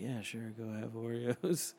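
sleepy agreement. Retold or imitated. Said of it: "I'm like".

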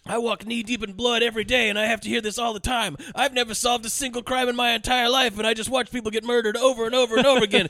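whiny complaint. Retold or imitated. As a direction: whine like a helpless cop. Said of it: "he's like".

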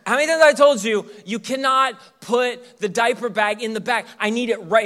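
high, loud, fast scolding wife; exasperated wife scolding like he's a child; wife nagging about where the bag goes; impersonating wife. Retold or imitated. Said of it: "uncanny impersonation right there".

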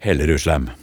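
bred østkantdialekt fra Hellerud; broad Oslo east dialect. Shown as a demonstration. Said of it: "nå går jeg over til det breie språket fra Hellerud".

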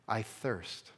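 soft, faint "I thirst" from the cross; weak whisper-like. Retold or imitated. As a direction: let "I thirst" fall away quietly, spent. Jesus's words on the cross.

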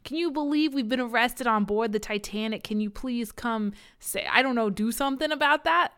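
lightly put-on New York accent; hint of New York in the voice; slight New York accent. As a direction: play it as a faintly New York mobster. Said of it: "they've got a slight New York accent".

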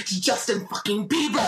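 laughing through the reveal; gleeful reveal. Retold or imitated. Fiancee reveals the singer to fiance, laughing. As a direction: savor the gotcha with a laugh. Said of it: "I was like".

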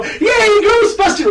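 high, strained grown-up cheer; cheer, then notice the skirt; now older, cheering for Ghostbusters; grown-up yay. Retold or imitated. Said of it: "now that I'm older, I go".

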